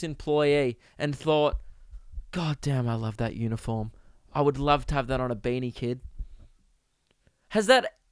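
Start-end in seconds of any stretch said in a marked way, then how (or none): 2.3-6.0 mock admiration. Mock admiration for an employee's uniform.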